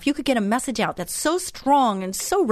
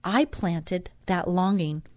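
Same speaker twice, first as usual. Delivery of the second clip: devotional reading. Acted. Host reads God's words to listeners, measured devotional reading. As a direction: read it aloud phrase by phrase, deliberately.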